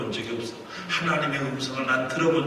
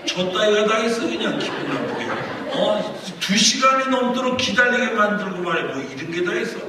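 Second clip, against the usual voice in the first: mostly higher, indignant grumbling; retold anger; 5 semitones higher than usual. Pastor kept waiting two hours, retold annoyance. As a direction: imitate fuming at being kept waiting. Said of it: "더 화가 나는 거예요".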